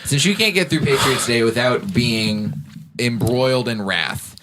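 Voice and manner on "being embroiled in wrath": slow mock grandiose. Real, not acted.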